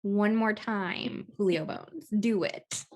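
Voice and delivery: slow, deliberate mock warning to the dog; mock threat. Owner daring her dog to touch the door, slow mock threat. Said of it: "so I'm like".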